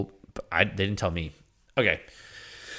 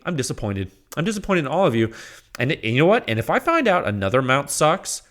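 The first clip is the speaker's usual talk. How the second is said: normal talking voice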